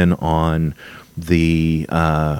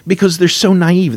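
much higher, exasperated burst; wound up; 12 semitones higher, 4 dB louder than usual. Real, not acted. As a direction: scoff at how naive they are. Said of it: "I'm getting a little wound up".

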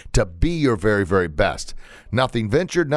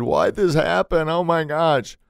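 slow, higher, lost and helpless; mock despair, slowed right down; despairing self-pity; 5 semitones higher, slower than usual. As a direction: ask the sky why it happened, drawn out. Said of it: "I've even said".

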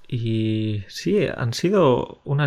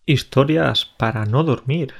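sultry female voice. Pretend. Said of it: "pero me ha salido una voz sensual".

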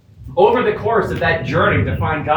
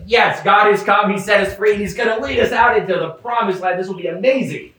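excited Israelites; 5 semitones higher than usual. Retold or imitated.

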